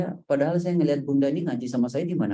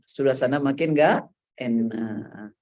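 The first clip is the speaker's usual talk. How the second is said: ordinary talk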